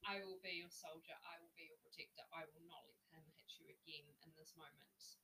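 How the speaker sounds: softening to a whisper at the end; protective reassurance. Retold or imitated. Comforting the terrified woman.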